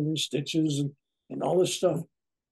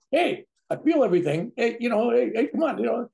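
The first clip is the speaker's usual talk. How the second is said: higher, louder mock yell at the doctor; retold scream; 9 semitones higher, 5 dB louder than usual. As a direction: call out to the surgeon, pitched up and loud. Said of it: "I'm screaming".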